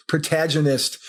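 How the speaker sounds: protagonist said the Australian way; Australian pronunciation. Retold or imitated. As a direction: imitate an Australian saying "protagonist". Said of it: "in that Australian way".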